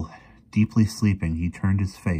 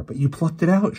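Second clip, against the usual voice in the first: very high, shocked objection; alarmed, high-pitched protest; gasped protest; 11 semitones higher, 4 dB louder than usual. A narrator's reading. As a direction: gasp it out in disbelief. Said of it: "she gasped".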